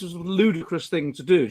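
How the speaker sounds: usual speaking voice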